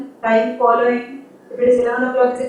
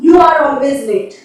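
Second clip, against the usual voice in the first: scolding teacher; 5 dB louder than usual. Shown as a demonstration. Teacher scolding late student.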